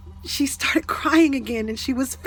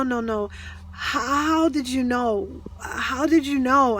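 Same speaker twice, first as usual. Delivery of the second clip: crying; slower than usual. Retold or imitated. Distraught woman crying in retelling.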